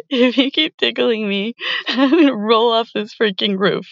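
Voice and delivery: giggling through the words; being tickled. Acted. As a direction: laugh it out, still tickled. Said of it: "You're tickling me".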